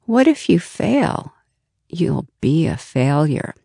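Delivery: a hint of an ominous inner critic; fixed mindset voice. Inner voice before a challenging task, a hint of warning. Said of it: "hear that fixed mindset voice saying".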